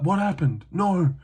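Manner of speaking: high, bewildered mock daze; dazed confusion. Fighter coming to after a hammer fist, dazed and high. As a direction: act out a fighter waking up confused.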